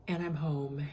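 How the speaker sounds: relieved whisper. Real, not acted. Relieved to be home.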